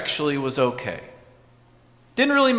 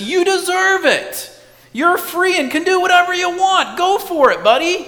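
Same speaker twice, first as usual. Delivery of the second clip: roaring tempter voice; 12 semitones higher, 6 dB louder than usual. Acted. Preacher voicing temptation to the congregation, a high booming roar. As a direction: let the inner voice roar, coaxing you to indulge. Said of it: "the voice gets really bold and starts to roar".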